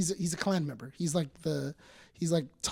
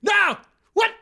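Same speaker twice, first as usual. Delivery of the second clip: loud, high cries of disbelief; panicked, acted-out denial of what's on screen; freaking out; 13 semitones higher, 8 dB louder than usual. Reliving the episode's ending for friends, freaking out. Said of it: "freaking out".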